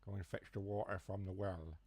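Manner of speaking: lightly put-on West Country farmer accent. Shown as a demonstration. Streamer demonstrating the accent slip, mock West Country farmer. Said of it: "I just go into a farmer accent".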